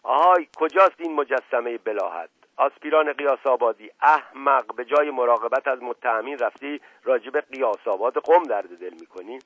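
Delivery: loud bellowing roar. Acted. The inspector roaring for his assistant, loud and angry. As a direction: bellow for the dim-witted aspirant. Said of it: "صدای نعرهٔ نایب تیمورخان بلند شد".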